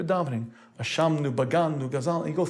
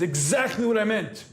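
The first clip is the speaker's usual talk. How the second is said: indignant emperor; 5 semitones higher, slower than usual. Retold or imitated. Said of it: "He gets up and says".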